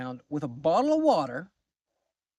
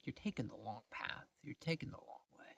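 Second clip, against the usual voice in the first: hushed retold nagging; 4 semitones lower, 11 dB quieter than usual.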